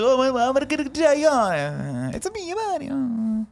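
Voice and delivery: high, slow cartoon Italian accent, Mario style; hammed-up Italian plumber accent; mock Italian accent, drawn out; stereotypical Italian accent. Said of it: "stupid stereotypical Italian accent".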